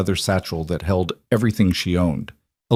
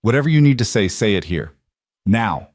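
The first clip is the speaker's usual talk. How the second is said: fearful demand. Acted. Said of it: "edged with the fear".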